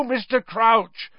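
high, slow, urgent calling; urgent cry of a name; urgent plea. Acted. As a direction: call his name in alarm. Harry urgently calls for help.

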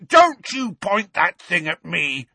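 high, loud panicked order; alarmed. A narrator's reading. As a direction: blurt it out as a sudden protest. Dudley recoils from the pointed wand.

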